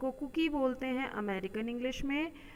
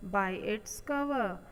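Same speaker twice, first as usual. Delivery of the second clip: slow dictation; 2 semitones higher, much slower than usual. Shown as a demonstration. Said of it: "reads the proverb slowly".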